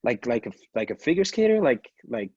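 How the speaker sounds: high, incredulous imitation of a stranger, half laughing; mock disbelief. Strangers learning he figure skates, hammed-up high disbelief. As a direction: ham up someone who can't believe it. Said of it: "it's such a surprise".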